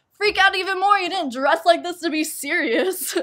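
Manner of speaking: loud, high hyped-up host; excited host. Retold or imitated. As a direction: pump up the contestant. Host urging her on.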